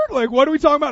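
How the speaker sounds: loud, high comic disbelief; Fresh Prince-style disbelief. Retold or imitated. Preacher reenacts his reaction to a text, comically incredulous. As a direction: blurt it high in mock bewilderment. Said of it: "my little Fresh Prince of Bel-Air".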